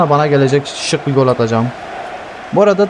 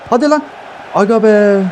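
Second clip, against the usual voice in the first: excited outburst; 8 semitones higher than usual. Real, not acted. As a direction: yell for the goal, then groan. Urging then missed chance.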